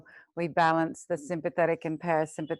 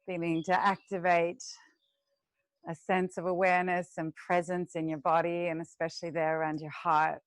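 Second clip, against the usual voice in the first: guided meditation. Acted. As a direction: lead the class gently into the breath. Teacher leads breathing meditation.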